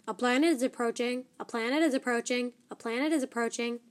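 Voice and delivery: fast, even robot announcement; a lightly done computer voice; mechanical voice. Acted. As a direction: ship computer gives a warning, mechanically. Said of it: "said the mechanical voice".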